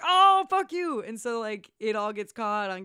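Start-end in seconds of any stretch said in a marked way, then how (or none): 0.0-1.0 high, loud retold outcry; mock outrage. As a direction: blurt it out as an exaggerated protest. Acting out police's outraged reaction.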